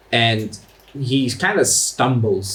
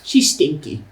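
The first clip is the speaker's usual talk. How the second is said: goblin; 4 semitones higher than usual. Acted. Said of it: "looks at the goblin".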